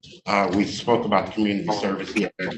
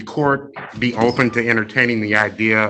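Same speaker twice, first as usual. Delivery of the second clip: louder, projecting to the room; outside voice; 2 semitones higher, 5 dB louder than usual. Real, not acted. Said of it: "Talk to us like you're talking to them kids".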